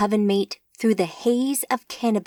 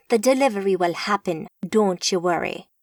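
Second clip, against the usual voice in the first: sarcastic. Acted. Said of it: "Lucian added some sarcasm".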